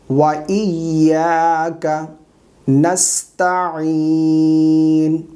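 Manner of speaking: slow, sustained chanting; measured tajweed teaching recitation; Quran recitation. Shown as a demonstration. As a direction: recite with long drawn-out vowels.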